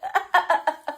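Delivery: short burst of laughter. Real, not acted. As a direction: laugh amid the squabble. Laughs amid the mock quarrel.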